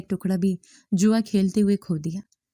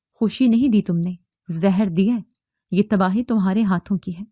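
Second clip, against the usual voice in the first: harsh voice. Acted. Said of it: "شوہر نے سخت آواز میں کہا".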